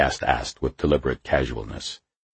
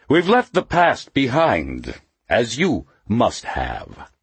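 Mephisto's voice; 9 semitones higher, 3 dB louder, slower than usual. A narrator's reading. Mephisto voiced, high and slow.

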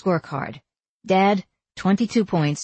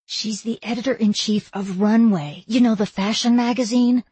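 pressing, slightly higher urgent plea; 4 semitones higher than usual. A narrator's reading. Assistant explaining her boss to a publicist by phone, urgent. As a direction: press the point, holding back frustration. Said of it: "I whispered urgently into the phone".

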